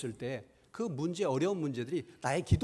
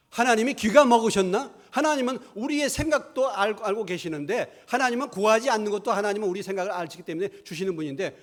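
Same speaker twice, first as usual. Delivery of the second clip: loud, raised-pitch scoffing argument; indignant objection; 5 semitones higher, 7 dB louder than usual. Retold or imitated. Preacher mimics a church arguing against loud prayer, indignant and loud. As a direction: imitate someone scoffing at noisy prayer.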